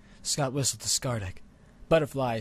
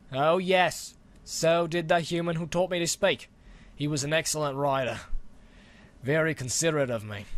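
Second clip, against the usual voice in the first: put-on louder, hearty old dragon reminiscing; big friendly dragon, a bit louder; jovial dragon; 3 semitones higher, 3 dB louder than usual. Dragon telling the boy about his old rider, hearty.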